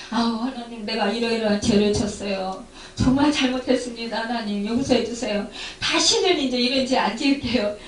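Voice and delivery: repentant prayer. Retold or imitated. Preacher voicing a believer repenting before God, hushed. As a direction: murmur a contrite confession, head bowed. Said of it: "앞에 와서 회개할 때".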